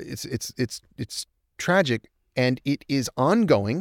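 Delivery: halting, stuttering speech. Speaker describing heartbreaking stories from Chernobyl, stammering.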